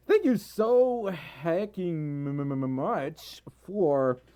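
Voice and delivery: stuttering, slowed with water in nose. Real, not acted. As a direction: struggle through with water up the nose. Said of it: "I have water in my nose".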